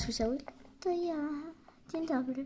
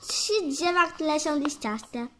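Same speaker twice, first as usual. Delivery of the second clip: slower and clearer, dropping back in level; slower repeat. Pretend. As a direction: spell it out again for the puzzled kid.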